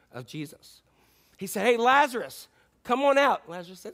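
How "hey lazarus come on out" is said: higher, lightly projected call. Acted. Jesus summoning Lazarus by name, calling out. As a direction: beckon someone out with a friendly holler.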